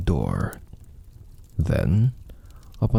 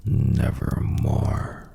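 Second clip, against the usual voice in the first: raven voice; 4 semitones higher, much slower than usual. Acted. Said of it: "Quoth the raven".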